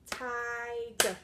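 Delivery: Ti-ger said loud in two clapped beats; loud, beat-by-beat syllable clapping. Shown as a demonstration. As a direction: clap out each syllable of Tiger. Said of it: "Let's see if we can clap".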